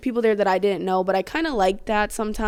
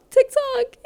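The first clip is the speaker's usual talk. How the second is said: silly squeal; 4 dB louder than usual. Real, not acted. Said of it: "I'm actually losing it".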